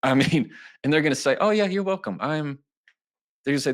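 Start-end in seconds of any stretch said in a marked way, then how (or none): 1.4-2.2 much higher, upbeat acted reply; imitating a gracious, chirpy response; cheerful acceptance. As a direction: play a pleased listener, pitched way up. Acting out a pleased listener's reply.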